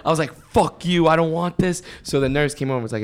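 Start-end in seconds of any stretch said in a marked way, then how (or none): 0.3-1.8 higher-pitched mock angry refusal; retold cursing. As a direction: curse like a groggy patient refusing treatment. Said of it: "I was cursing at my dad".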